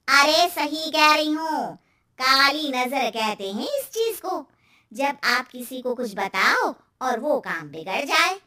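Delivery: emphatic, superstitious aunty warning; lightly voiced aunty, pressing her point; insistent neighbour aunty. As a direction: warn with knowing insistence, loud at the start.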